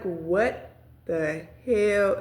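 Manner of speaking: very slow, drawn-out disbelief; retold disbelief. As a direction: stretch out each word, incredulous. Stunned reaction, retold.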